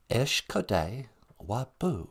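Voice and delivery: Ishkode Wabu said slowly, syllable by syllable; slow Ojibwe teaching. Shown as a demonstration. Teacher slowly sounding out Ishkode Wabu for the audience. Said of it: "we'll teach the people together".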